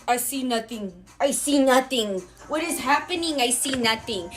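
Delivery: lightly mocked dad turning a blind eye; feigned obliviousness. Dad watching his son get beaten, feigning obliviousness. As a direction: play innocent bystander, deliberate wording. Dad pretending not to see fight.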